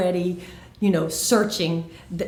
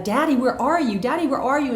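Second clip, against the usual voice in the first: put-on higher-pitched anxious child calling for dad; acted panicky little girl call; lost girl crying out; 6 semitones higher than usual. Lost daughter calls for her daddy, crying out anxiously. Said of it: "she started crying out".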